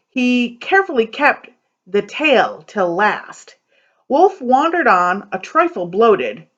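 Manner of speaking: lively poem reading with character voices; storytelling read-aloud. A narrator's reading. Librarian reading a fairy tale poem to kids, animated. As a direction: read the rhyming tale to children with bounce.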